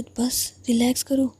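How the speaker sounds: slow, hushed reassurance; calming whisper. Acted. Elder sister hushing her frightened younger sister. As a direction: soothe her gently.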